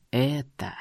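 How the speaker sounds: low, slow, painful to hear; slow grating voice. A narrator's reading. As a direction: drag it out, harsh and eerie. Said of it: "медленно и больно для слуха произнёс он".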